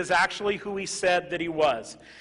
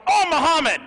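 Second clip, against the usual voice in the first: mock curse; 13 semitones higher, 14 dB louder than usual. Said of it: "then I go".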